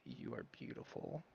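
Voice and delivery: soft, hushed whisper to a blade; hushed in-character whisper. Acted. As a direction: whisper it low, just for the sword. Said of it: "Flint is going to whisper to the blade".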